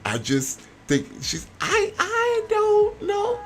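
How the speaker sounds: stammering, caught off guard; flustered. Acted. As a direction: stumble for words, flustered.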